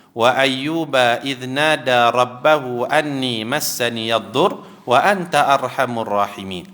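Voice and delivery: slow, chanted Arabic verse; Quran recitation. Acted. Preacher reciting the verse to the congregation, slow and chanted. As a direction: recite it slowly, like reading the Quran.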